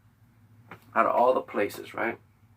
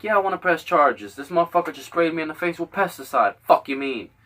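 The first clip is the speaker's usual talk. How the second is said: retold angry outburst; 5 semitones higher, 6 dB louder than usual. Telling officer to press charges.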